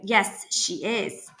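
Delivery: slow, firm contradiction; a touch of toughness, each word set down slowly; tough voice. Acted. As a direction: hold your ground, tough and deliberate. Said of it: "she says in a tough voice".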